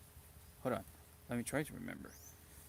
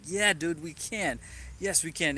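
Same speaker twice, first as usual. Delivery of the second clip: a bit louder, eager retold cheer; excited agreement; 4 semitones higher, 3 dB louder than usual. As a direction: pump up your sick friend, mildly hammed. Retold pep talk with friend.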